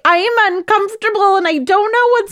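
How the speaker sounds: voicing herself. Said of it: "I was like".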